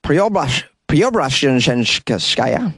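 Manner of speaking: Preobrazhenskaya drawn out slowly with a questioning rise; unsure pronunciation. Real, not acted. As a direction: sound out Preobrazhenskaya very slowly, asking. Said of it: "I think I nailed it".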